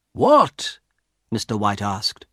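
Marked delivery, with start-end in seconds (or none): 0.1-0.8 high-pitched, startled what; baffled question. A narrator's reading. Husband asks wife what she wants, baffled. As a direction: ask it in sharp surprise.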